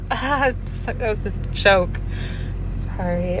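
soft, slow retold apology; quiet, embarrassed mumble, acted out; sheepish backtrack. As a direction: shrink back after a joke falls flat. Backtracking after failed joke.

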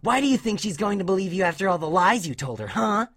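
high-pitched mocking tirade; taunting. A narrator's reading. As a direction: pile on the questions to belittle the kid. Dash taunts and threatens sobbing Scootaloo.

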